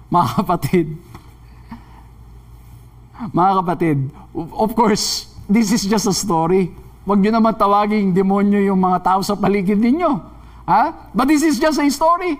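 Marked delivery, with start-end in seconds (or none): none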